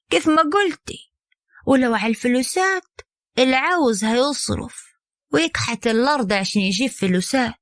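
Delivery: slyly. Acted. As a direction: needle her with cunning. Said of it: "ردت عليها كهرمانة بخبث".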